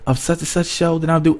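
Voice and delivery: playful put-on voice of a chatty star; imitating Amara. Vlogger imitating Amara chatting on set, high and bubbly. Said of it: "She's like".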